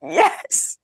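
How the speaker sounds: breathless whispered yes; a starstruck fan's whispered yes; awed whisper. Retold or imitated. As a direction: whisper it, overwhelmed and near tears. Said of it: "And I, like".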